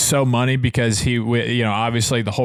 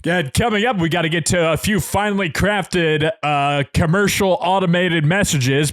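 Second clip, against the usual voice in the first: higher-pitched radio host tossing to traffic; Rake; 6 semitones higher than usual. Retold or imitated. Host handing over to the traffic reporter, higher radio-presenter voice. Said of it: "Rake ways where he'd just be like".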